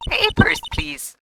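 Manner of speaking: playful creepy game-hand voice; mock creepy voice. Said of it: "the hand in Majora's Mask".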